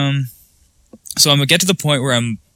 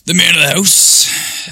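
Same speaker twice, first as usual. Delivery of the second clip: mock pompous; 7 semitones higher, 4 dB louder, slower than usual. Mock proud self-description.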